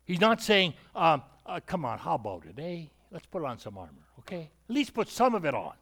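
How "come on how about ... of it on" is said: coaxing. Retold or imitated. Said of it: "that's how we would talk today".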